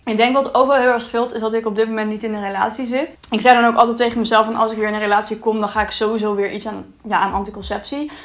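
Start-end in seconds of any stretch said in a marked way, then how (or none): none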